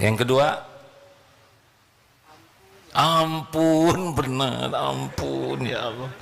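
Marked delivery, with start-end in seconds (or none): 2.9-6.1 pleading repentance. Acted. Believer begging God's forgiveness, fading plea. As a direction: beg forgiveness, voice sinking.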